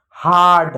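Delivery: हार्ड with a held आ, falling; long आ sound. Shown as a demonstration. Teacher answering own question, long आ in हार्ड. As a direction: stretch the आ in हार्ड. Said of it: "आ पढ़ा, तो क्या पढ़ा?".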